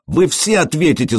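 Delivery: high-pitched, understated angry cry; outraged wail. A narrator's reading. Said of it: "завопил он". (возмущённый вопль, негромко)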